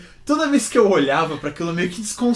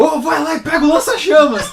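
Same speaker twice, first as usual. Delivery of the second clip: laughing shout; 8 semitones higher, 9 dB louder than usual. Retold or imitated. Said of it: "O Kurt Russell vira e fala".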